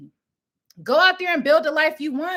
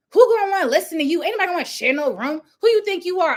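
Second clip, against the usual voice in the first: mocking relative; 4 dB louder, faster than usual. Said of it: "He was like".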